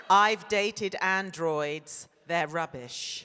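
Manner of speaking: slow, drawn-out River Song English accent. Shown as a demonstration. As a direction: demo the line in River's English accent, taking your time. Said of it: "say in your best River English accent".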